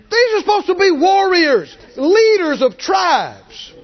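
high, loud, slowed shout; scornful shout. Real, not acted. Preacher scolding the cowardly leaders, loud.

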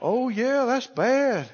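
mock-gullible agreement; dumb dupe. Gullible believer falling for the devil's distraction, dumb. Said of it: "And if you're dumb, you'll go".

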